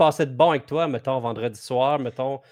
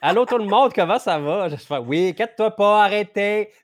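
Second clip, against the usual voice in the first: mock panic; 7 semitones higher, 4 dB louder than usual. Mock panic after muting himself.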